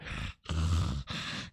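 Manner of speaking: heavy, soft sigh of exhaustion; a worn-out mock sigh; exhausted sigh. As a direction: sigh like you can barely stand. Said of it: "I'm out of breath".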